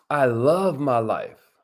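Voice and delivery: affirmation. Shown as a demonstration. Host leading viewers in affirmations, low and slow. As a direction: lead the room in it. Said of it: "Say it with us".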